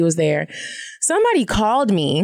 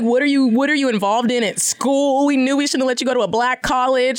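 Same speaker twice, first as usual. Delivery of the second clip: worried parents; 4 semitones higher than usual. Retold or imitated. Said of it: "They're like".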